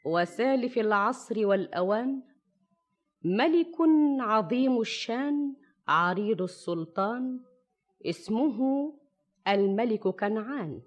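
put-on measured old storyteller narration; arabic grandma folk tale. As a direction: tell it like a fireside tale. Shahrazad begins her tale over music.

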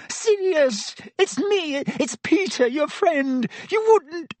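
high, whining, desperate rat-man; squeaky pleading Pettigrew. Acted. Pettigrew begging his old friend Sirius, high whining plea. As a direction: beg like a cornered coward, high and thin.

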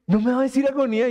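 quick, pleading friend voice; a friend who misses the nickname; lightly imitated hurt friend. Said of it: "Así me dijo". (amigo dolido, rápido y suplicante)

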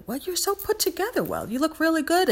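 high, gushing compliment in a put-on voice; imitating the woman's gush. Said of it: "But she's just like".

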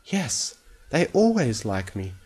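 slow, hesitant character voice; drawn-out uncertain reply; slow, unsure. A narrator's reading. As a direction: answer slowly, doubting yourself. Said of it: "she said slowly".

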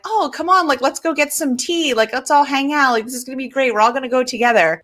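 high, breezy party invite; bright mock-friendly invite; chummy Lando. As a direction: sell it like a cheerful host. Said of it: "Lando's like".

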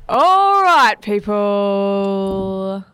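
imitating a chirpy breakfast radio DJ; mock radio DJ. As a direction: hype it up like a youth radio host. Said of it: "when we talk about radio voice".

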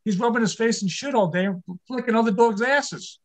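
a disbelieving husband scoffing at the dog's spa day; husband scoffing at the price of the dog's facial, incredulous. Retold or imitated. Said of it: "I said".

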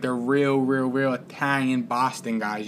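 lightly imitated Boston Italian accent; a touch of Boston guy talk. Telling the cohost how those guys talk, light Boston accent. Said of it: "they all talk like this".

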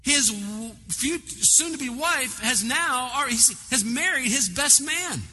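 preacher's indignation building to a peak; rising indignation. Real, not acted. Building outrage retelling.

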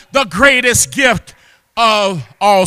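drawn-out, weighty proclamation; emphatic preaching. Real, not acted. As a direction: proclaim it slowly in full preaching voice. Climax of the sermon's praise.

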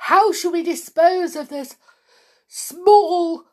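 high, loud sneering witch; scornful witch. A narrator's reading. Witch to the crowd, high scornful sneer. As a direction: spit out the word small. Witch asks about the boy.

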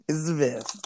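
lightly mocking high voice. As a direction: echo it in a silly high voice. Echoing friend's line, high.

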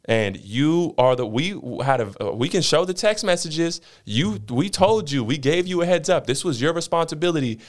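stern, rising listen; retelling telling off the supervisor; firm pushback. Retold or imitated. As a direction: lay down the law. Standing up to supervisor.

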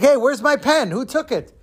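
high, startled schoolboy outcry; alarmed kid. Acted. Schoolboy back from recess finds his pen gone, high alarmed outcry. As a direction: sound like a kid who just lost his prize.

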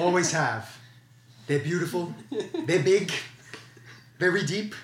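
slow, self-assured Trump voice; Trump impression. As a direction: boast it like Trump. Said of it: "Let me, let me do this".

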